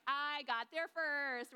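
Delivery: mock the disciple showing off that he won the race; smug boast. Teacher mimics John bragging he beat Peter, slow smug gloat. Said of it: "It sounds like he's flexing".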